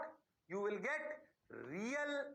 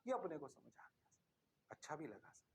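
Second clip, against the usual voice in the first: student voice; 7 semitones lower, 7 dB quieter than usual. Pretend. Teacher voices satisfied students.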